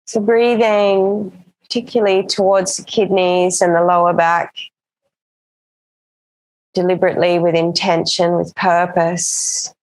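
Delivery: calm, even yoga-teacher voice with long pauses; settled meditation-class delivery; guided breathing practice. Acted. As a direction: guide them gently into the breath, unhurried.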